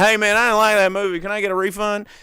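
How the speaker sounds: hammed-up entitled moviegoer; imitating a whiny customer. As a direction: demand a refund like a spoiled customer.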